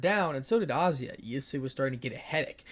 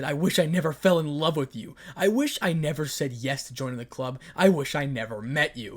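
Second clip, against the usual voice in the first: bitter outburst; 6 dB louder than usual. Acted. Issei's bitter confession.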